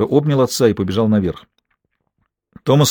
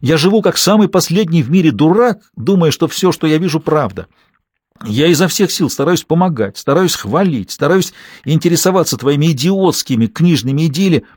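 higher, loud ranting shout; husband shouting at his wife while pacing the kitchen; 6 semitones higher, 3 dB louder than usual. A narrator's reading. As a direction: pace and yell out his grievances. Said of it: "крича, расхаживать по кухне".

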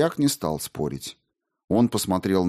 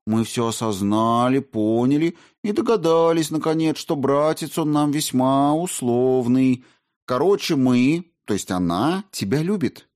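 excited blurting; 6 semitones higher, 3 dB louder than usual. Acted. Margarita blurts confession.

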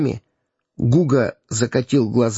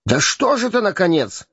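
higher, exasperated outburst; a touch of hammed-up irritation; in exasperation; 7 semitones higher than usual. A narrator's reading. Hugo loses patience with the stubborn king, exasperated. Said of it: "Проговорил в сердцах Гуга".

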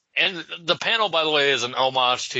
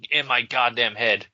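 ordinary delivery

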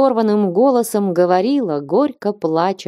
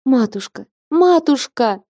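cry out; 7 semitones higher than usual. A narrator's reading. Girl crying out to the abbess as she falls at her feet, high anguished cry. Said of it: "вскрикнула Флёнушка".

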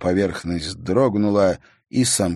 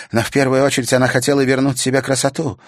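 contemptuous; 7 semitones higher, 6 dB louder, faster than usual. A narrator's reading. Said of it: "презрительно усмехнулась Саяна".

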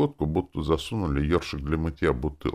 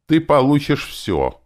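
hateful rasp; 11 semitones higher, 6 dB louder, slower than usual. Acted. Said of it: "проскрипел ... с ненавистью".

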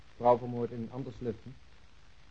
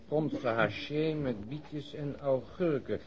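slow, drawn-out menu reading; 3 semitones higher, much slower than usual. Acted. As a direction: spell out the dish while reading it. (langzaam voorgelezen menu)

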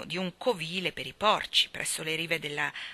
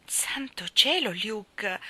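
slow, higher, anguished; 3 semitones higher, much slower than usual. Acted. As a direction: let the dismay sink in slowly. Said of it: "disse Maggie con voce angosciata". (voce angosciata, lenta e più acuta)

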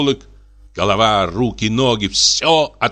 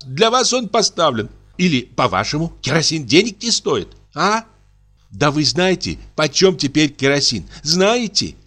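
put-on high, nagging old-maid voice; scolding spinster; 8 semitones higher than usual. A narrator's reading. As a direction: nag him about the price of kerosene. Dashenka scolds about money.

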